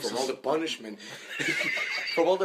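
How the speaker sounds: laughing through the words; chuckling as he tells it. Real, not acted. Laughing while telling beating story.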